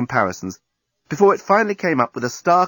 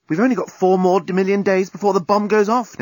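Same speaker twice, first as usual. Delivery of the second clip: higher, pressing concern; urgent worry; 8 semitones higher, 4 dB louder than usual. A narrator's reading. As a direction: press the deadline, pitched up. Urgent deadline before bomb.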